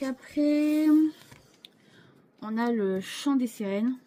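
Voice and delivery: high and slow, stretching the word; drawn-out, lifted lead-in to the reveal; upbeat announcement. Real, not acted. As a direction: build up to the next theme. Announcing the next card theme.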